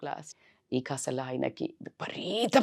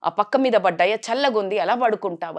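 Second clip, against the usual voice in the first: a son's mock angry scolding at night; angry shouting; 2 semitones higher than usual. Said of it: "గట్టి గట్టిగా అరిశాడంట".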